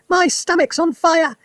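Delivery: put-on old grandma shrieking high and loud, slowed; high, loud, slow alarm cry; sudden shout. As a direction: bellow it like a panicked old woman. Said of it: "she shouted suddenly".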